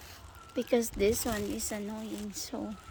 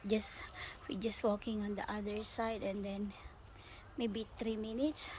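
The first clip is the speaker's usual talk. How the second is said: whispering; 7 dB quieter than usual. Real, not acted. Drops to a whisper.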